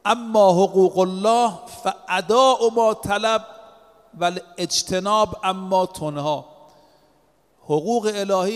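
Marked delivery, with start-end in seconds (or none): 0.0-6.5 slow Arabic recitation. Retold or imitated. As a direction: recite the Arabic hadith slowly and deliberately. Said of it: "فرمود".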